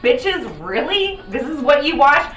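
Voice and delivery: loud, high furious rant; angry shout. Real, not acted. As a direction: shout it out in outrage. Ranting about the show.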